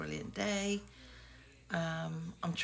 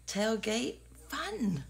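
excited; 5 semitones higher, much slower than usual. Real, not acted. Excited about beach tailgating.

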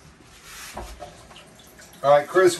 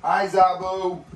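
pet-calling voice; 10 semitones higher than usual. Real, not acted. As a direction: coax the animal in a high voice. Calling pet lemur over.

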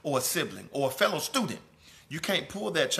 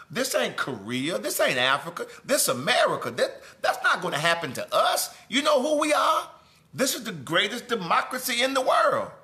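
higher, louder indignant mock outrage, laughing by the end; preacher mimicking smug, offended citizens; mocking proud patriot; 5 semitones higher, 4 dB louder than usual. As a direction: ham up the arrogant American boasting. Mocking arrogant Americans' protest.

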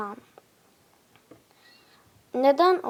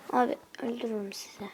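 mock threat; 6 dB quieter, faster than usual.

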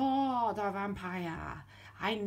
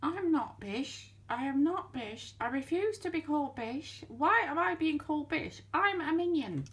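squeaky minion; 3 semitones higher than usual. Acted. Indignant minion insisting to the narrator it is no Bish. Minion puppet protesting his name.

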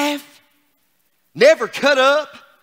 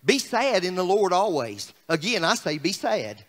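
low, softening glum reading; deadpan downcast scripture parody; mock-sad paraphrase; 5 semitones lower, 4 dB quieter than usual. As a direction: read it gloomily, sinking lower. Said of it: "another, uh, paraphrase".

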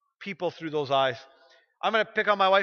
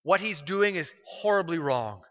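voice of God; 2 semitones lower, slower than usual. Retold or imitated. Pastor voicing God rebuking the pimp, slow and solemn. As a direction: speak as God, slow and grave. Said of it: "God was like".

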